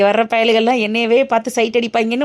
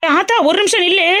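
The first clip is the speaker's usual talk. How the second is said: calling out; 5 semitones higher than usual. Acted. Calling grandmother to stop.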